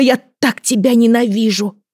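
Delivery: put-on high, loud child's hateful scream; hysterical screaming. A narrator's reading. Son screaming hatred at his mother, high and loud. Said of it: "Ил перешёл на крик".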